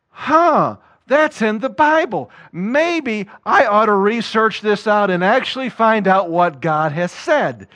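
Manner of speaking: light up as if finding something new; curious surprise. Retold or imitated. A free believer noticing the feasts, curious and surprised. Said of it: "they'll go".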